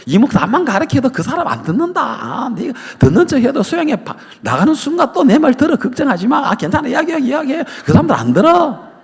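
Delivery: high, mocking devil voice scoffing at the preacher. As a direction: sneer like the devil sure he has won. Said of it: "마귀가".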